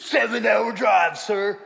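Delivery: loud, drawn-out Southern drawl; Southern accent. Retold or imitated. Husband insists to pastor, loud Southern drawl. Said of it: "That's what he said".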